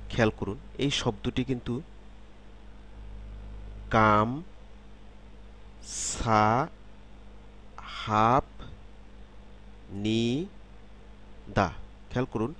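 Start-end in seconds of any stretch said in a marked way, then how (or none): 3.9-11.7 each syllable alone, drawn out, with long pauses between "কাম, সা, হাপ, নি, দা"; "কাম, সা, হাপ, নি, দা" spelled out syllable by syllable; separate syllables. Shown as a demonstration. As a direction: say "কাম, সা, হাপ, নি, দা" one isolated syllable at a time, keeping the p in "হাপ". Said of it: "আলাদা আলাদাভাবে যদি উচ্চারণ করি".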